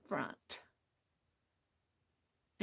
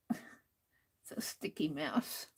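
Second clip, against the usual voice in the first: slow whisper; 7 semitones lower, 9 dB quieter, slower than usual. Real, not acted. Muttered complaint while gluing.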